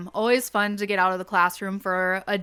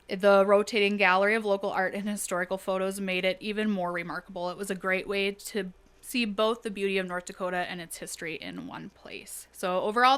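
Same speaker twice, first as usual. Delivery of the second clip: even, read-out delivery; reading aloud. Real, not acted. Teacher sharing a student's field trip write-up, reading it aloud. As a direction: read a written account aloud, letting sentence ends drop away. Reads a student's written account.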